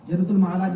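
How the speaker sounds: "المعلیٰ" with a short, undoubled "mala" ending; mispronounced Mu'alla. Shown as a demonstration. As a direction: say "المعلیٰ" wrongly as al-Ma'laa, without the doubled l. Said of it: "لوگ بولتے نہیں".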